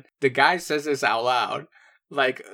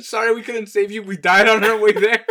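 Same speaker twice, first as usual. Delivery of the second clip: laughing; 7 semitones higher, 9 dB louder than usual. Pretend. Joking apology as useless army.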